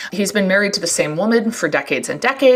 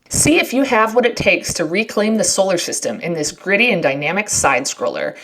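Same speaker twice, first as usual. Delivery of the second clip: ad read. Acted. Reads sponsor ad.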